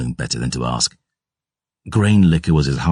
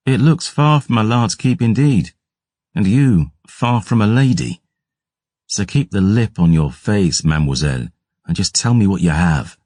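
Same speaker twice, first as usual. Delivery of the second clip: higher, sharp rebuke of the maid; irritated Gabriel; 5 semitones higher than usual. Acted. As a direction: put the cheeky girl in her place. Gabriel snaps at the tavern lass.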